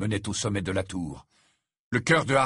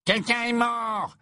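much higher, slow, strained voice; voice jumps an octave; 14 semitones higher, slower than usual. Acted. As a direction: pitch shoots up in panic. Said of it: "d'une voix qui sembla monter d'un octave".

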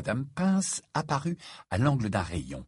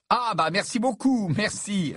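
high, flustered gratitude; embarrassed raised-pitch thanks; awkward thanks; 11 semitones higher than usual. Acted. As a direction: thank politely while wanting to escape. Harry awkwardly accepts unwanted gift.

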